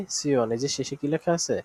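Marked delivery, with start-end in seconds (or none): 0.1-0.5 "সিয়ন" said as si-on; demonstrated pronunciation. Shown as a demonstration. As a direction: repeat "সিয়ন" as the drill answer. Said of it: "কি উচ্চারণ করা হবে?".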